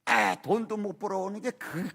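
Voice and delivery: acted-out wife snapping at her husband; mildly hammed-up angry nagging; mock hot-tempered scolding. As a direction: imitate a wife flaring up in irritation. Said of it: "우락부락하고 막 혈기 부리고".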